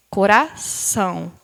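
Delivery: "coração" slowed, leaning on the final ÇÃO; stress on final syllable. Shown as a demonstration. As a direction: draw out "coração" to show its strong ending. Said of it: "qual que vai ser a".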